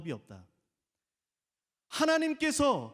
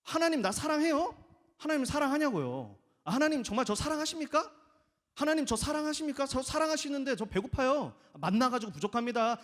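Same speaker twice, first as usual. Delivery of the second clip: higher, pleading and grumbling at God; mock complaint to God, pitched up; whiny complaining prayer; 6 semitones higher than usual. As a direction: whine like ungrateful Israelites. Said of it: "구약 시대 이스라엘 사람들이 만나를 받으면서".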